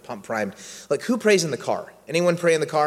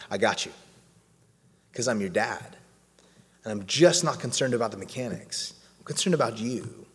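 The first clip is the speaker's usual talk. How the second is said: lower, softer reassuring father; a hint of a tender dad comforting his child; gentle fatherly God; 4 semitones lower, 4 dB quieter than usual. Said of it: "And he's like".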